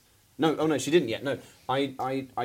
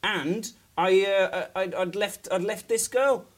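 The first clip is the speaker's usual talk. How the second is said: higher, much louder, laughing indignant rant; mock outrage; 9 semitones higher, 9 dB louder than usual. A guest ranting at the late co-host in mock fury. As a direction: blame the co-host in a hammed-up fury.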